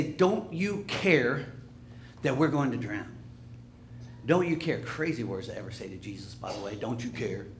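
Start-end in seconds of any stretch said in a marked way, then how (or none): 0.0-4.8 upset plea. Acted. Frightened disciples waking Jesus in the storm, upset. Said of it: "and they're so upset". 6.7-7.5 low, soft echo of the quote; quiet repeat. Retold or imitated. Preacher reflecting on the disciples' words, quiet and low.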